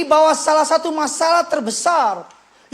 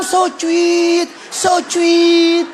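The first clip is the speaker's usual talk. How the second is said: mock swooning; 5 semitones higher, much slower than usual. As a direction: coo it like a swooning wife. Wife mimics sweet romance.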